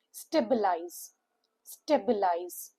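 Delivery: Stabilize said slowly, low, STAY-bi-lize; slow model word. Shown as a demonstration. Teacher introducing the new word slowly to learners. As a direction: draw out Stabilize syllable by syllable. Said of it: "Three syllable word".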